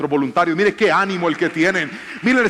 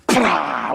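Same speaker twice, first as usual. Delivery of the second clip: demonstrated noise; 4 semitones lower than usual. Shown as a demonstration. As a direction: act out a crashing "pra". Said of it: "van a hacer una vaina así".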